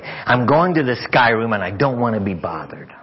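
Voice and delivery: firm, mildly irritated retelling; half angry. Retold or imitated. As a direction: announce it with a touch of anger. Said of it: "half angrily".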